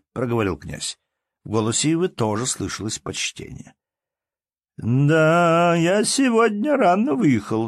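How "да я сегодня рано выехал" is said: put-on high, slow drawl of an old count; drawling old man. Old man answers the prince in a drawn-out tone. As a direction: stretch each word like a grand truth. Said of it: "отвечал старик протяжным тоном".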